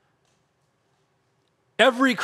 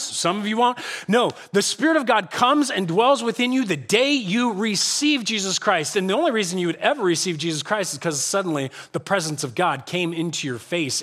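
ordinary talk

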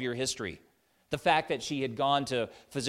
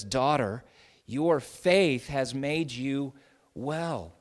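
slower, gentle, close and personal; tender; 3 dB louder, much slower than usual. Acted. Jesus tenderly assures the desperate woman, gently. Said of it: "speaking in very tender, personal terms".

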